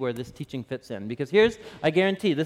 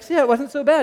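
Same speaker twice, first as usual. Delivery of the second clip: laughing; 10 semitones higher, 7 dB louder than usual. Retold or imitated. Dad teasing son after sliver.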